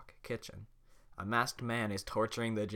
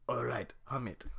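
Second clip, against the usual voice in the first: whispered; 2 semitones higher than usual. Acted. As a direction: whisper it, unvoiced. Shrek giving in.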